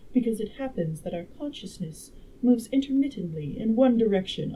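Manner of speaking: lightly voiced, emphatic woman lecturer; a hint of a learned lady, punching key words; time traveler as a girl. Time traveler instructing the dinner guests, lightly voiced clever girl. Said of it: "make the time traveler a girl".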